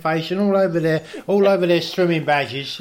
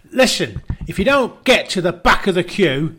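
angry attendant; 3 semitones higher, 5 dB louder than usual. Retold or imitated. Angry guy voiced.

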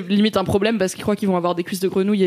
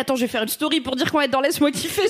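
high, gushing excitement; excited friend; 5 semitones higher than usual. Retold or imitated. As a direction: rave like a thrilled friend. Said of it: "Elle était là". (voix enthousiaste)

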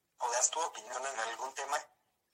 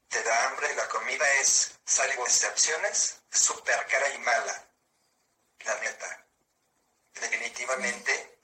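text-to-speech voice, even and mechanical; synthesized voice. Real, not acted. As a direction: speak like a computer speech synthesizer. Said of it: "esta es una voz sintetizada".

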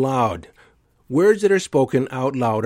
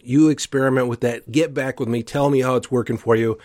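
usual speaking voice

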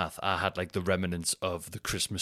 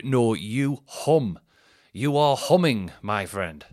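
louder teasing telling-off; mock scolding; 2 semitones higher, 6 dB louder, much slower than usual. Telling a smelly mate off, loud teasing. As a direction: tell him off with a grin.

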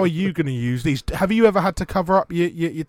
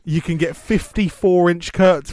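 advert voice; 3 semitones higher, slower than usual. Pretend. Mock advert for curtains.

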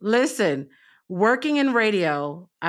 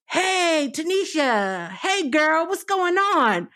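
high, chummy fake-familiar greeting; mock supervisor slang; 7 semitones higher, much slower than usual. Supervisor greets Tanisha with put-on slang, high and chummy. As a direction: pitch it up like a boss trying to sound hip. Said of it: "first of all, I don't even speak like that".

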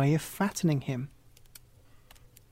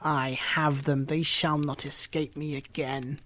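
mocking malice. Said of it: "laughed with malice and said mockingly".

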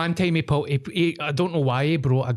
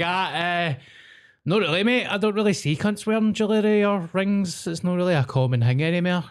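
mock reply; 5 semitones higher than usual. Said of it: "I'm like".

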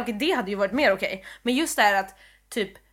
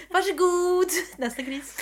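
singsong counter clerk, starting high; mock service voice; 8 semitones higher, slower than usual. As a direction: hand it over like a mock clerk. Mock ticket agent serving pigs. (låtsad expeditröst)

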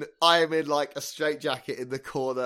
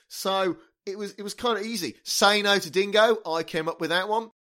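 put-on terrible Australian accent. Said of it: "the terrible Australian accents are at an end".

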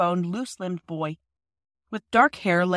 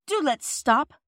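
breathless; 6 semitones higher, 5 dB louder than usual. Acted. Phyllis tired on climb.

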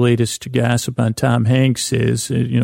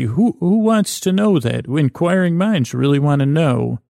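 higher-pitched, lightly hammed-up tabloid commercial; put-on TV ad dialogue, pitched up; mock ad voice; 3 semitones higher than usual. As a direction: play the incredulous question and the slogan reply. Acting out imagined tabloid TV commercial.

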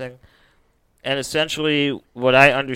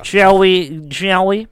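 higher and louder, grandly inviting; theatrical invitation; 7 semitones higher, 7 dB louder, slower than usual. Pretend. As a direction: sweep them in with a flourish. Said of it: "repeated playful invitation".

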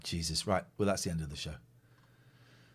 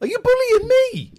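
laughing; 8 dB louder than usual. Real, not acted. Mock hurt, laughing.

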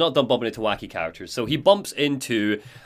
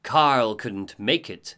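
slow, lightly eerie figure; eerie veiled woman; much slower than usual. Acted. Veiled woman greeting Alan outside the bathroom, lightly eerie and slow. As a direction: say it slowly and with measured poise. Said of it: "a pale woman dressed in black".

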